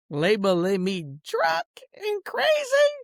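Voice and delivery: slow, cracking, shouted protest; indignant outburst. Real, not acted. Shouting at the family who called him drunk, near tears. Angry rant at ex-wife's family.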